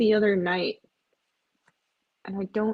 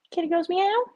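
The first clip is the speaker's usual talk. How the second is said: kitty line lifted much higher, sing-song; 9 semitones higher than usual. Shown as a demonstration. To viewers about the cats, a high sing-song lilt. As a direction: lilt it up high like talking to a cat. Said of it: "Kitty does go meow".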